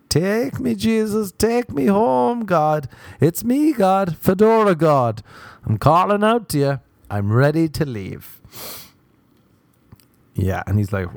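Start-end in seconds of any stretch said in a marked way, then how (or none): 0.1-8.4 high, drawn-out cry to heaven; mock desperate plea. Comic sick with nausea begging God to take them, wailing high. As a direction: call out theatrically, voice raised high.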